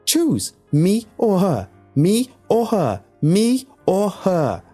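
very high, loud, repeated shriek; crazed screech. A narrator's reading. Alex demanding that Tom choose, crazed screech. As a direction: screech it, dragging out the last repeats. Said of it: "began to screech like a crazed".

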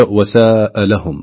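وساء لهم slowly, with a long "saaa"; drawn-out correct reading. Shown as a demonstration. Host repeating the correct reading back, slow وساء لهم. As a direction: hold the vowel of ساء before لهم. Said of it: "وهي".

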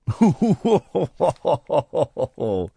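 long stuttering hoot of laughter; drawn-out laugh. Acted. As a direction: laugh in a slow descending string of pulses. Mock ghostly laugh after script.

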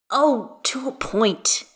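slow, breath-heavy concession; sighing. A narrator's reading. Gale concedes to Astarion about rumours, sighing. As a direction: give in on a sigh, drawn out. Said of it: "Gale sighs".

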